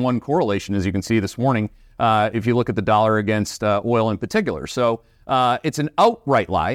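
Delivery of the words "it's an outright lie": a light Canadian "outright lie", barely shifted; mild Canadian accent, stressing outright. Shown as a demonstration. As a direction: lean on "outright" with a Canadian lilt. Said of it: "that's with my Canadian accent".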